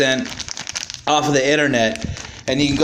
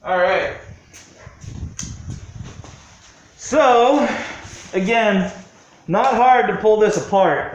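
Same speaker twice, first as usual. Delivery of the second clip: talking through a respirator mask; muffled behind a face mask; 3 semitones higher than usual. Real, not acted. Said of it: "I apologize if my voice is a little muffled".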